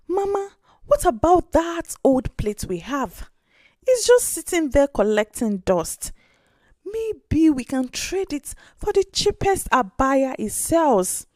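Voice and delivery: put-on a small girl rushing in with big news; excited little girl. Orphan girl begs her grandmother for an abaya, excited child voice.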